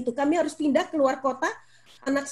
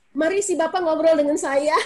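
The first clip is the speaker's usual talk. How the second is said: laughing invite; 3 semitones higher than usual. Real, not acted.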